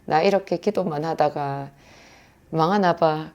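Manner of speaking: quiet, downcast murmur to oneself; softly retold sigh of defeat; despondent lament. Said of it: "탄식으로 제가 말했어요".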